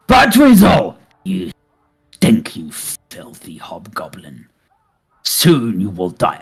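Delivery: taunting shout. Acted. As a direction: yell the taunt at the prisoner, then sneer it low. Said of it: "that kind of, uh, taunting".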